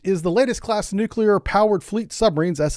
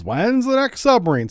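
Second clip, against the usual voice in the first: higher-pitched mock complainer; imitated impatient viewer; 5 semitones higher than usual. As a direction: lightly mimic a pestering emailer. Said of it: "I'm gonna start getting emails".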